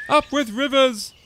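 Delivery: high, loud joyful chant; happy herd slogan; hooting. A narrator's reading. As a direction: hoot it with delight. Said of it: "they hooted".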